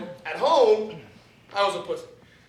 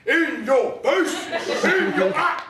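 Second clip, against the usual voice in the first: slow, high gloating taunt; high mocking gloat; 5 semitones higher, much slower than usual. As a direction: rub it in his face. Taunting coworker.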